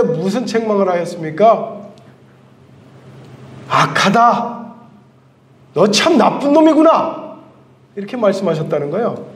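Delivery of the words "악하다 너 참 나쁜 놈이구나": stern rebuke. Acted. Master rebukes the lazy servant.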